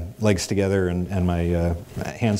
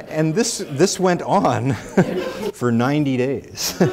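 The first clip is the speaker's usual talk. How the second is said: laughing through words; 5 semitones higher, slower than usual. Real, not acted.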